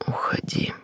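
hoarse, breathy near-whisper. Acted. Ex-lover tells the heroine to leave, hoarse. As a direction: rasp the word out low and hushed. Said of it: "хрипло произнёс".

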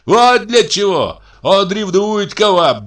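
very high, loud taunting squeal. A narrator's reading. Brother exposing jealousy to the doctor, squealing. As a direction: shriek the reason out at a high pitch. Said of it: "запищал Михей Егорыч".

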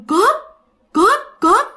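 a hint of a scream in the night; retold cry of thief. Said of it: "mà tiếng lớn lắm".

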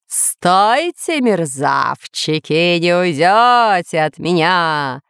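slow, stretched villain call; drawn-out menacing threat; thundering. Acted. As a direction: boom it slowly after fleeing prey. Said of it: "гремел с небес тот же самый голос".

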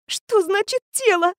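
high thin squeak of disbelief. A narrator's reading. Girl squeaking at the teacher's news, high squeak. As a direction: squeak it out, voice jumping up. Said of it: "пропищала она".

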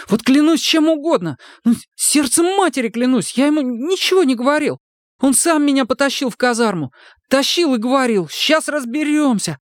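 high, pleading outburst; frightened recruit protesting. A narrator's reading. Сомик отчаянно отрицает обвинения, высоко и испуганно. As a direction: deny it desperately.

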